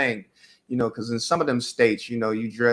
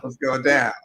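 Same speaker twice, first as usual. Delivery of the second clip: trying to be cool. Retold or imitated. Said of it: "I'm trying to be cool".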